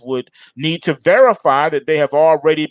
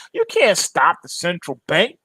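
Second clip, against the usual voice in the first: ordinary talk, nothing marked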